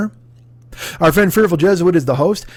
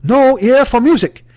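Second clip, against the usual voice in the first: retold insult; 5 semitones higher than usual. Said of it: "he goes".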